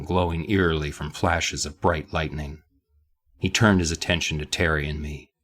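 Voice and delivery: understated, badly faked Boston accent reading; terrible Boston accent. Host reading the author's words, terrible Boston accent. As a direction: read it aloud in a bad Boston accent. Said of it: "but in a terrible accent".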